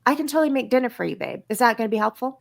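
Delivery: quick, easy, willing offer to babe; eager offer. Shown as a demonstration. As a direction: rush it out, glad to help.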